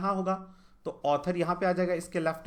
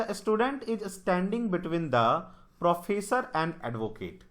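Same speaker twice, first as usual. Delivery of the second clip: reading the English line out word by word, slowly; slow question read; 3 semitones higher, much slower than usual. Shown as a demonstration. Teacher slowly reads the puzzle statement to students, deliberate.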